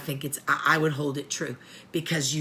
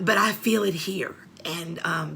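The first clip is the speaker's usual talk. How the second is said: whispered. Real, not acted. Mother confiding her own pain to listeners, whispering. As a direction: drop to an intimate whisper.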